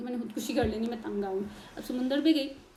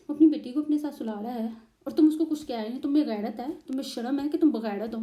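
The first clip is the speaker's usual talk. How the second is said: angry scolding; 2 semitones higher, 6 dB louder than usual. Retold or imitated. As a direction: scold her loudly for shaming him. ससुर का गुस्से में डांटना. (ऊँची आवाज़ में गुस्से से डांटना)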